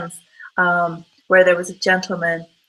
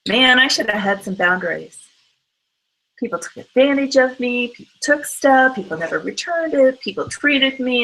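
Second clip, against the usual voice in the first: higher, whiny mock complaint about being used; victim voice; 4 semitones higher than usual. Looking back on life, complaining like a victim, mock whine. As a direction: sound sorry for yourself, playing the victim. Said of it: "you're talking like the victim".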